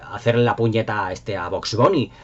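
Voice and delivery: usual speaking voice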